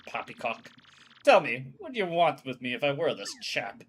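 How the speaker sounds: lightly voiced stuffy old admiral; a hint of a proper old Englishman brushing them off; old sea captain. Old admiral refusing the crew, lightly voiced.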